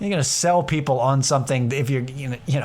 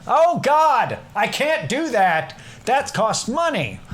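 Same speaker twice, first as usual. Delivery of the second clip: higher, slow panicked whine; mock panic; 9 semitones higher, slower than usual. Voicing his own panic over what fun costs. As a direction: sound stricken by the price.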